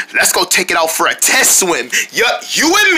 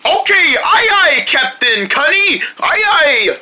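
eager crew reply; 7 semitones higher than usual. Acted. Playing along as eager crew.

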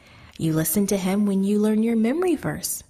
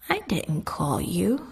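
sleepy. Acted. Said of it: "he said sleepily".

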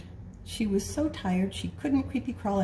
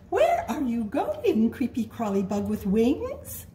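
bird voice; 4 semitones higher, 3 dB louder than usual. Acted. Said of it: "a bird who said".

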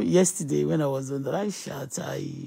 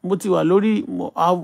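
louder, heated telling-off; angry rant; 9 dB louder than usual. Real, not acted. Host ranting at beggars on her platform, angry rant. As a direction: vent your annoyance at them.

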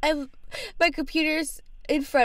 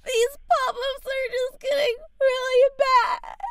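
high, loud, drawn-out wail; fake crying; 11 semitones higher, 5 dB louder than usual. Caller complains to tech helper about pop-ups, crying. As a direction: wail it slowly through mock tears. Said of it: "Why are you crying?".

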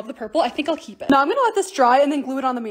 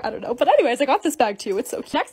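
usual speaking voice

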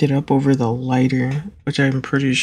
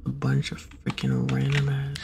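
hushed frustrated whisper; 9 dB quieter than usual. Real, not acted. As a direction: breathe it out under your breath. Frustrated muttering while playing.

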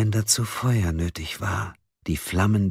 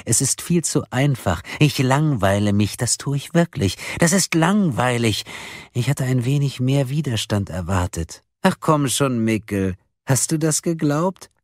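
high, gleeful mocking voice; taunting caller; 7 semitones higher than usual. A narrator's reading. Caller mocks the four for being naive, gleefully taunting. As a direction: draw it out with amused scorn. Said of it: "Die Stimme lachte wieder".

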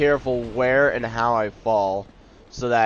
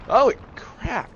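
high, drawn-out mock wail; mock falling cry; 12 semitones higher, slower than usual. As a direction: cry out slowly as if plummeting. Voices falling enemies' reaction.

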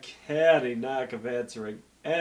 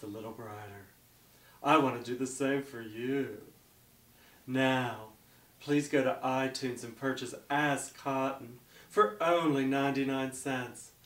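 hard sell ad. Acted. Closing sales pitch.

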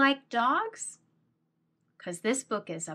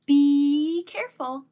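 warning; 5 semitones higher, 7 dB louder than usual. Acted. Warning child about bees.

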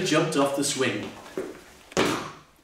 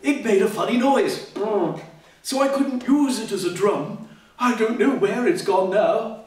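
lightly voiced bear; 4 semitones higher than usual. Bear character voice.

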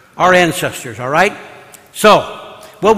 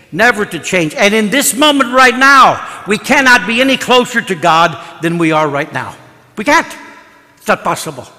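emphatic preaching; 2 semitones higher, 4 dB louder than usual. Real, not acted. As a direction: drive each phrase home to the congregation. Preaches with raised, emphatic delivery.

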